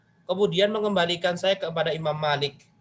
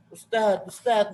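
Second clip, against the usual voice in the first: whining; 2 semitones higher, slower than usual. Retold or imitated. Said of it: "merengek-rengek".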